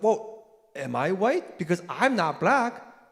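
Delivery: slow, puzzled asking; mock questioning. Retelling a Japanese American applicant's slow puzzled question. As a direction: spell out the puzzle slowly. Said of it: "Japanese American person was like".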